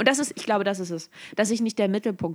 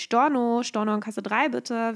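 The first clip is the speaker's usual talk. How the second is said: store announcement. Pretend. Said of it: "Lautsprecherdurchsagen machen".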